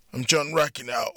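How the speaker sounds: rough, strained hoarse voice. Acted. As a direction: croak it hoarsely. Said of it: "John said in a hoarse voice".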